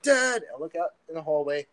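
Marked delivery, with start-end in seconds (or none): 0.0-0.4 one high, loud yell; retold scream for dad. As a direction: shout down the hallway for your father. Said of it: "I'm screaming for my dad".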